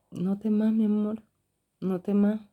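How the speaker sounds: mother calming her scared daughter, tenderly; reassuring mother. Retold or imitated. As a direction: soothe a frightened child. Mother comforting frightened daughter.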